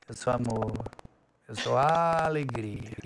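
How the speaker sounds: put-on low, dragged-out, reluctant teen delivery; sulky teenager. Teen made to affirm himself at the mirror, sulky. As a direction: drag the words out like an unwilling teenager. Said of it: "Sabe como é adolescente borrado?".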